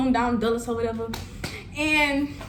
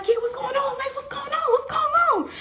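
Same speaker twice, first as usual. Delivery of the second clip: friends asking. Retold or imitated. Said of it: "they were like".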